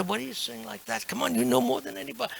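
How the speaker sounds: high, quick voice of a protester; protesting listener. Acted. People objecting to a humble devotee, high quick protest.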